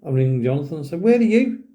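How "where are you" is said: higher, urgent retold question; urgent phone plea. Alone in a haunted building ringing Jonathan, urgent plea. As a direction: mimic an anxious demand down the phone. Panicked phone call in story.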